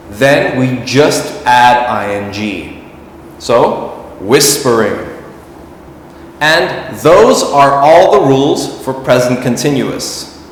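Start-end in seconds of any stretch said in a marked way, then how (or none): 4.2-5.1 "whispering" stressed on WHIS, falling away; stress on first syllable. Shown as a demonstration. Teacher showing the plain -ing rule, first-syllable stress on "whispering". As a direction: hit the beginning of "whispering". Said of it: "stress is on the beginning of the word".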